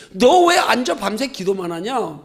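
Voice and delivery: slow, measured mock scolding; retold divine rebuke. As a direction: draw out the reproving question. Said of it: "깨닫게 하시는 책망의 말씀이".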